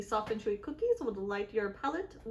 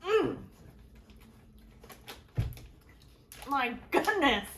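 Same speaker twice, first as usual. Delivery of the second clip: delighted moan; 4 semitones higher, slower than usual. Real, not acted. First bite of a treat.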